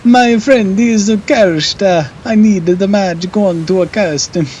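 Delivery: a high wailing plea over a cursed friend; distressed character voice. Acted.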